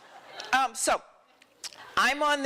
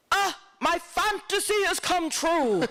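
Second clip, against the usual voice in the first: Fellini; 9 semitones higher than usual. Retold or imitated. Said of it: "it's Fellini saying".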